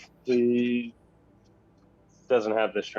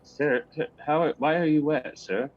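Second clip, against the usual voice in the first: put-on a light, higher, jittery young servant voice; flustered cabin boy; 7 semitones higher than usual. Cabin boy stammering a towel offer to the soaked captain, flustered. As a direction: stammer at the captain like a nervous deckhand.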